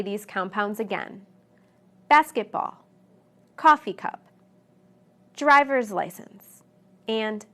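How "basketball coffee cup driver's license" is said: BASKETball, COFFEE cup, DRIVER'S license, first part higher; BASKET, COFFEE, DRIVER'S punched, second part dropping away; stress on first word. Shown as a demonstration. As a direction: hit the first word of each compound, let the second fall. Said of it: "on the first word".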